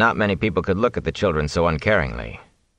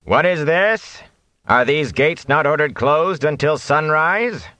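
higher, slow, cold challenge; 9 semitones higher, slower than usual. Acted. Whitecloak challenging the open gate, slow cold voice. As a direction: demand it icily from the dark. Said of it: "a cold voice spoke".

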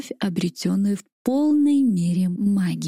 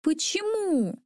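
angry; 10 semitones higher, 3 dB quieter, slower than usual. A narrator's reading. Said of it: "Со злостью шлёпнула".

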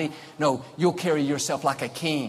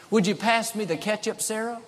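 sweet request; 5 semitones higher than usual. Shown as a demonstration. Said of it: "every time someone said".

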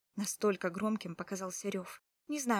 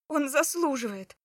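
hissed; 5 semitones higher, 8 dB louder than usual. A narrator's reading. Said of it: "прошипела я".

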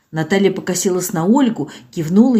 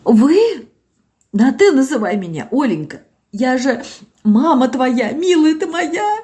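put-on singsong old woman; 6 semitones higher than usual. Zinaida to her daughter, sing-song and tender. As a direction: sing the words out like a mother. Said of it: "говорила нараспев".

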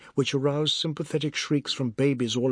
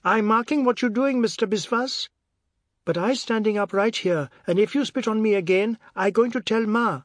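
high-pitched tattling threat; indignant shout; 8 semitones higher, 4 dB louder than usual. A narrator's reading. Boy threatening to tell Ma about spitting, indignant shout. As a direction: shout up, puffed with outrage. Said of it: "the god shouted".

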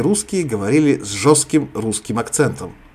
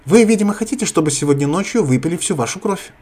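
loud warning, higher pitch; 6 semitones higher, 3 dB louder than usual. Acted. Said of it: "громко сказала Зина".

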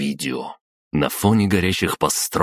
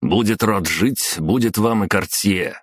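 curt reply; 4 semitones higher than usual. Acted. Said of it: "резко ответил Архип".

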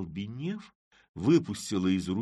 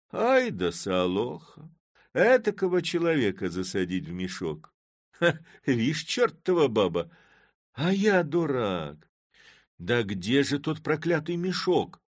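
indignant Chub; 6 semitones higher, 5 dB louder than usual. A narrator's reading. Chub fuming over Solokha's tricks, loud. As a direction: fume at Solokha.

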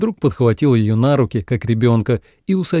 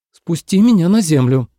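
louder, higher demand; demanding girl; 5 semitones higher, 4 dB louder than usual. A narrator's reading. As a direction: insist on being let down. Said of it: "потребовала Ацинь". (требовательно, громче)

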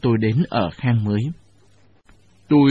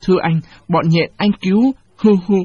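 wailing; 6 semitones higher than usual. Acted. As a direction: wail and beg through tears. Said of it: "bù lu bù loa".

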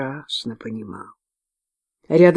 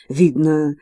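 usual speaking voice

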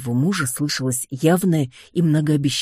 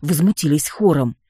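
usual speaking voice

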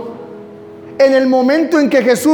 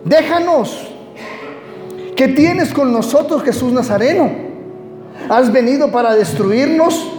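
demon's crying out; 2 semitones higher than usual. Acted. Preacher reading the demon's words to Jesus, a mild outcry. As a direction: cry out as the demon, understated. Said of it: "exclamó a gran voz diciendo".

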